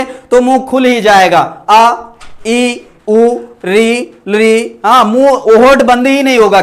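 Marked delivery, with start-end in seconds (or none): 1.7-4.8 आ, ई, उ, री, ली each sung out open-mouthed; sounding out vowels. Shown as a demonstration. Teacher showing vowels keep the mouth open, open-mouthed आ ई उ. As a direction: open wide on आ ई उ री ली, lips never closing. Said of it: "जब भी स्वर बोलेंगे".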